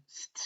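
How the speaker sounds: ST alone, unvoiced and soft; isolated blend sound. Shown as a demonstration. Teacher showing the S T blend, isolated. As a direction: say ST as one short blend without a vowel. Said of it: "S T for our blend".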